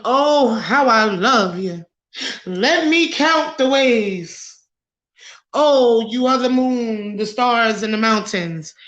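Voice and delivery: slow, lightly hammed-up romantic sweet talk; mock love bomber. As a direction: drag it out like a fake lover's poem. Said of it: "Love bomb you and".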